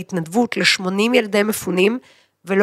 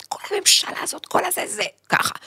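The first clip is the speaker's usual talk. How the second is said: shouting; 11 semitones higher, 5 dB quieter than usual. Retold or imitated. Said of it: "פתאום אני צועקת".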